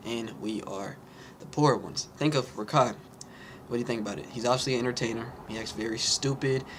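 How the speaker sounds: punchy presenter voice to camera; video commentary delivery. Acted. Creator explains modern day jesters to viewers, punchy commentary delivery.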